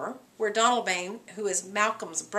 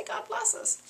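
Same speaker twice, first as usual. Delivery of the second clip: breathy whisper of God bless us, much higher; whispered prayer; 11 semitones higher, 4 dB quieter than usual. Acted. Macbeth echoing the sleepers, whispered.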